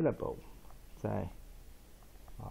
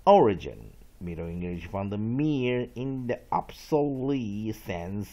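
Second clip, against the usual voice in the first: slow, deliberate dictionary reading; read-along examples; 3 semitones lower, 3 dB louder, slower than usual. Shown as a demonstration. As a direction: stretch out each phrase for learners. Reads example and origin aloud. (慢速朗读例句)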